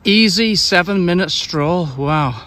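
out of breath on a walk; slightly winded while walking. Real, not acted. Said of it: "I'm out of breath already".

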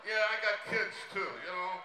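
a lightly done Dangerfield voice, exasperated and self-pitying; Rodney Dangerfield impression. Comic on stage doing a Dangerfield set, self-pitying. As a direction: play it like a put-upon comic who gets no respect.

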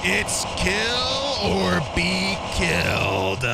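lightly voiced sly, mocking flower with a cackle; menacing villain voice.

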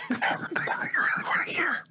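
right in your ear. Acted. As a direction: whisper it teasingly into her ear. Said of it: "I'm gonna whisper in her ear".

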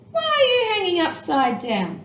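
a stranger bat calling out; loud question. A narrator's reading. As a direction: call the question across boldly. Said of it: "a loud voice said".

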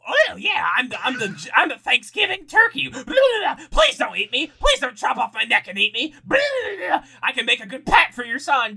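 high pleading turkey voice; gobbling turkey voice. Pretend. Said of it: "do something Thanksgiving as a sign off".

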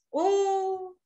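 a high, drawn-out oh of wonder; high sustained oh, playful amazement; mock wonder. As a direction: gasp at the idea of an earthquake. Imagining an earthquake.

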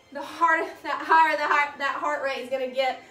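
stumbling over the words; tongue-tied, tripping on the phrase. Real, not acted. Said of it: "Wow, I'm tongue-tied again".

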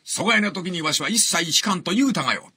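retold Tosa-dialect testimony; rhythmic old Tosa-dialect recital; Tosa dialect, kodan-like. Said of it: "講談みたい".

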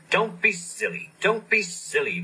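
high, puffing chant. Acted. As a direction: puff it out. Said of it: "puffed Edward".

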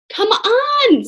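high, eager urging. A narrator's reading. Annie urging Jack to steer the ship. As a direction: cheer him on. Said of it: "said Annie".

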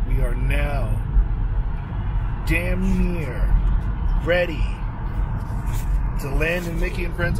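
excited. Real, not acted. Arriving at Disneyland, thrilled.

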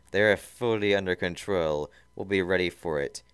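squeaky voice. Acted. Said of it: "Snively squeaked".

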